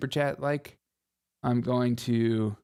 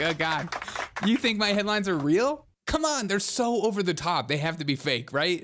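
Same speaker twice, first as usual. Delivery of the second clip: exasperated; 5 semitones higher than usual. Retold or imitated. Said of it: "I'm like".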